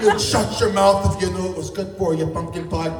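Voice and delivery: a hint of a creepy movie weirdo, drawn out; freak character voice. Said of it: "That kind of freak".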